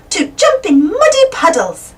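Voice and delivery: high, gleeful little cheer. A narrator's reading. Peppa to her family about muddy puddles, cheering. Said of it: "cheers Peppa".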